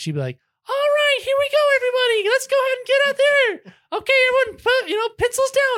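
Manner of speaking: put-on shrill loud voice. Mimicking the instructor of a class the speaker's parents took, imitating a loud, shrill voice. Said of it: "talks with a loud, shrill voice".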